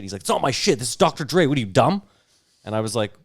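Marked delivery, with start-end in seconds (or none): 0.2-2.0 indignant rapper. Retold or imitated. Drunk rapper argues with host.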